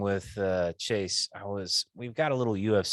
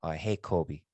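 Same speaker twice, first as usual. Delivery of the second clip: Canadian impression. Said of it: "Does he really talks like this".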